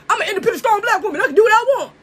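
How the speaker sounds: lightly put-on sassy woman's voice; a hint of a defiant woman talking back; mock independent woman. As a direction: sass it up like she's defending herself. Mocking an independent black woman.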